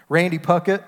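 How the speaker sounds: a preacher father calling his son's name over the PA; dad calling out. Retold or imitated. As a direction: call "Randy Puckett" out firmly from the pulpit.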